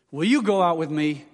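"Will you go out with me" in careful, distinct words; clearer speech. Retold or imitated. Student asking girl again, "Will you" said clearly. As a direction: articulate "Will" with a clean L. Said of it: "when he could say it clearer".

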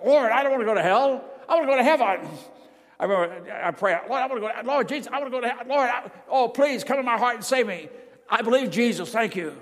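put-on frightened boy crying out to Jesus for salvation; desperate prayer. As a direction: beg to be saved from hell. Desperate prayer in terror of hell.

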